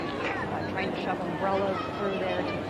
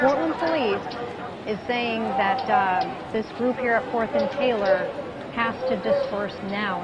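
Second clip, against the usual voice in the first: raised voice; 2 semitones higher, 3 dB louder than usual. Real, not acted. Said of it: "Say that one more time".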